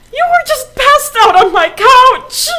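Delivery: put-on high, loud old lady's protest; indignant outburst. Woman woken up on the couch, shrill indignant outburst. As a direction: exclaim it high and loud, affronted.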